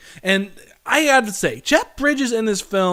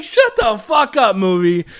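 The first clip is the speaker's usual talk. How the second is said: fed-up, raised-voice heckle; exasperated outburst; 3 semitones higher, 6 dB louder than usual. Retold or imitated. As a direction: yell at the movie to shut up. Exasperated retort to the film.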